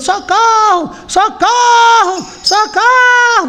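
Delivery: mock kid's voice, very high, desperate screaming. Telling a terror scene, the speaker acts out a boy shut in a room, retelling screams for help. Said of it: "E o guri gritando".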